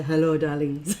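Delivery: lightly voiced campy diva greeting; a hint of a theatrical diva; campy drag queen. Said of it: "answer my phone at work one day and say".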